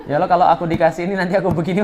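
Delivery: fast, laughing mock prayer; mock threatening prayer. Preacher mocking a bargaining prayer, quick and laughing. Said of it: "ngancem gitu loh".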